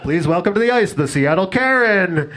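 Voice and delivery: hammed-up PA introduction of the mascot; arena announcer. Arena announcer between hockey periods.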